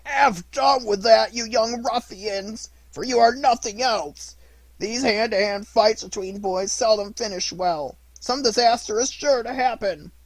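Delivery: high, loud, slow crab like a trumpet with a cold; hoarse crab voice. A narrator's reading. Crab scolding the fighting boys in a slow, high trumpet-like voice. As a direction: scold them slowly like an old crab. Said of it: "in a hoarse voice that sounded like a trumpet".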